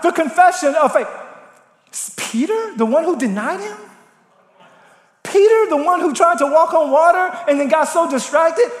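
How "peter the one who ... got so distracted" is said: incredulous. Real, not acted. Incredulous about Peter's flaws.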